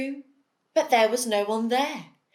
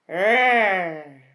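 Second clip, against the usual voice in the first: bear growl; 3 semitones lower, 3 dB louder than usual. Acted. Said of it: "what bears do best".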